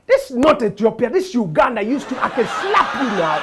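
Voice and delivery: loud mock threat, laughing; threatening woman. Woman in elevator threatens to slap him, loud mock anger. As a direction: snap it like a bossy guest.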